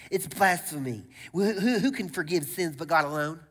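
lightly acted indignant Pharisee; a touch of a scandalised Pharisee; mock Pharisee. Teachers of the law accusing Jesus of blasphemy, mock Pharisee. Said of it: "that's what Pharisees sound like".

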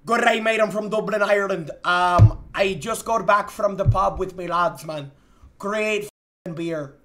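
amateur Irish accent; a so-so Dublin, Irish accent. Shown as a demonstration. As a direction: put on a rough Irish lilt. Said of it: "with an Irish accent".

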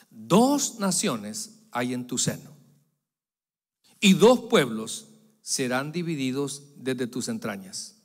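slow, solemn divine pronouncement; voice of God. Retold or imitated. Pastor reading God's answer to Rebekah, slow and solemn. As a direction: declare it slowly, like God speaking. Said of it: "Y le respondió Jehová".

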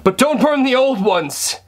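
hammed-up freezing movie character; high-pitched, overdone movie melodrama; acting out film scene. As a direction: play someone freezing, badly overacted. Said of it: "act out something from that movie".

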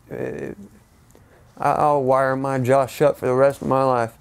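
holding back tears while talking; crying. Real, not acted. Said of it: "Sorry for the, the crying".

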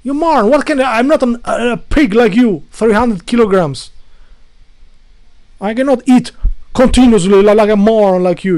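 high, loud mocking yell at a housemate; imitated screaming roommate. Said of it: "screams and he says".

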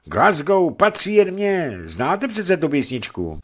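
lightly voiced mock Scottish lilt; slow, put-on music-hall Scottish accent; a hint of a silly fake Scottish accent. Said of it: "její rádoby skotština ... zněla strojeně a směšně".

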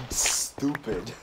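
"stupid" dragged out slowly from a long hissed s; slow, over-pronounced "stupid"; drawn-out "stupid". Real, not acted. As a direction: stretch the word "stupid" slowly, leaning on the first s. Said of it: "The way you just said stupid made it sound".

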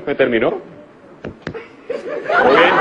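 mock cool reply. Man dumped, acting cool.

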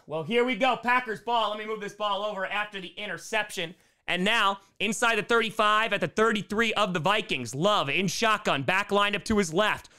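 steady live football commentary; play-by-play. Real, not acted. Streamer calling the Packers' drive, play-by-play. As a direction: narrate the snap and throw as it happens.

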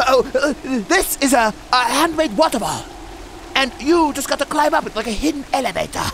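high, put-on guide voice; mocking character imitation. Player mocking the game character's waterfall advice, high imitation. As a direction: mimic his odd high-pitched explaining. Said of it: "why he talks like that".

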